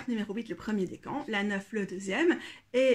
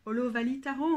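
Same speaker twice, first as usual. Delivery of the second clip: Hollow Valley Tarot with a French accent; frenchified English title. Shown as a demonstration. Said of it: "on va dire avec l'accent français".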